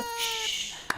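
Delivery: put-on a long soft hush to a crying baby; mother hushing her crying baby, a soft shush.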